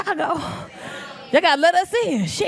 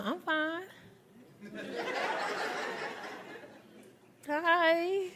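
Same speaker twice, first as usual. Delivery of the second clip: curt mock reply; 2 semitones higher, 14 dB quieter, much slower than usual. Woman's curt reply acted.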